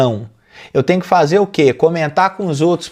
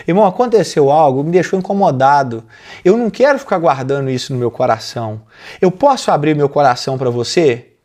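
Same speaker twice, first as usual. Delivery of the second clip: lower, calm and sincere; gentle heartfelt opening; 3 semitones lower than usual. Shown as a demonstration. Pastor models confiding hurt to a church brother, calm and sincere. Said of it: "tô dando exemplos aqui pra te ajudar a chegar na pessoa".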